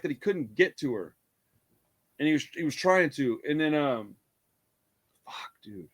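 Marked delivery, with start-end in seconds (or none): 5.3-5.9 whispered curse under breath. Real, not acted. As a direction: mutter it to yourself. Whispered frustration.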